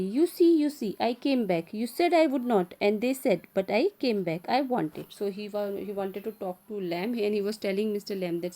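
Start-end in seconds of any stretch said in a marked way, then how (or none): 0.0-5.1 loud and high, triumphant; excited. Acted. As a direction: burst in proud you came back. Derry proudly announces his return.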